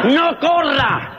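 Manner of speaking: drawn out, slow and tired; mild mock exhaustion; slow weary plea. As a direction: drag out a no corra like an exhausted husband. Husband exhausted.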